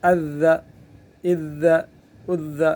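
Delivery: اذ gripped hard on the doubled ذ; مشدد ذال; doubled dhal. Shown as a demonstration. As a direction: press the ذ of اذ firmly. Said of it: "اس کو مشدد کر لیتے ہیں".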